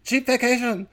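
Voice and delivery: high-pitched exaggerated mock Asian accent. Comedian repeats the family's cheap vacation line, broad Asian accent. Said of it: "gave 'em an Asian accent there".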